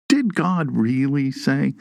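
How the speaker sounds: lightly voiced serpent, slow questioning; slightly drawn-out question as the serpent; serpent's question. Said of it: "the serpent opens with a question".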